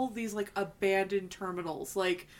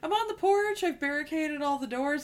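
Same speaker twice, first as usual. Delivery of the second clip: excited phone call; 4 semitones higher than usual. Pretend. Imagined phone call, higher.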